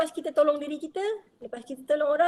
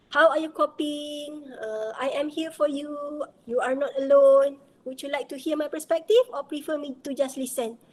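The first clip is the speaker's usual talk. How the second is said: gentle caring check-in. Shown as a demonstration.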